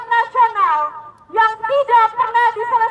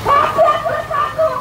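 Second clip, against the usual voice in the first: shouted rally slogans, pitched up; 5 semitones higher than usual. Real, not acted. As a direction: call out each slogan to the crowd. Rally chant leader calling slogans.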